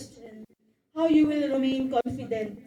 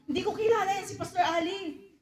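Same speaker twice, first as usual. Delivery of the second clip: higher, hammed-up back-and-forth with a sudden denial; mock denial; 5 semitones higher than usual. Suitor denying being born again to a crush. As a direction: play the suitor denying church to win a crush.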